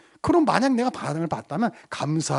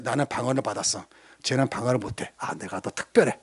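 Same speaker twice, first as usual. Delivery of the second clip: smug boasting; 8 semitones lower, 7 dB quieter than usual. Pretend. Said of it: "어깨 으쓱".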